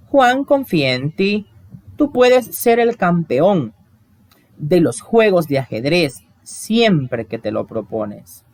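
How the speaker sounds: slow, earnest encouragement; encouraging. Acted. Teacher voicing a friend encouraging Juan, slow and earnest. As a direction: cheer him on slowly, one phrase at a time.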